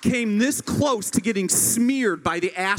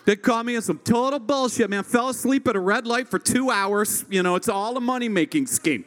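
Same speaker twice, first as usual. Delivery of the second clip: dismissive excuse. Retold or imitated. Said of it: "always the same explanation".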